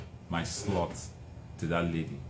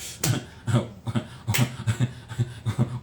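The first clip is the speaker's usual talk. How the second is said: imitated scoffing chuckle; dad's dismissive laugh. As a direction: mimic a father laughing off the request. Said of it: "my dad was like".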